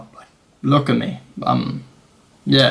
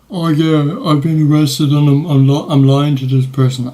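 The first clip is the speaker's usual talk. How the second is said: mock guilty panic; 3 semitones higher, 3 dB louder than usual. Traveller's imagined thought while lying to officer, mock guilty panic. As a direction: act out a mock guilty confession.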